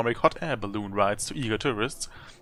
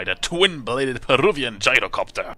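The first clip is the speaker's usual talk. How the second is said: loud, punched-up relish; impressed emphasis; 5 dB louder than usual. Real, not acted. Player picking the craft to fly, impressed emphasis. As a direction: hit each word with relish. Repeats item, impressed, in louder voice.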